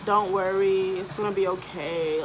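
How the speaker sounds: gently mimicked comforting; soft-hearted reassurance. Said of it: "she was all soft-hearted".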